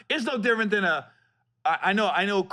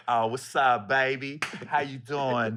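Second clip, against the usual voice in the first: put-on street voice; 4 semitones lower, slower than usual. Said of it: "Why is he talking like that?".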